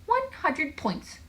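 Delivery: high, slow announcement; triumphant declaration. A narrator's reading. Joel declares a winning Scrabble score, triumphant. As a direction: stretch out the score proudly. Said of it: "she declared".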